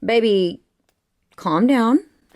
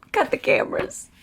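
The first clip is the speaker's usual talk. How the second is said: whisper; 12 semitones higher, 4 dB quieter than usual. Real, not acted. Overwhelmed, ending filming.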